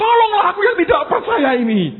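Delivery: loud, high retold shout; crying out. Father of sick child pleading for help, crying out. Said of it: "Terus teriak".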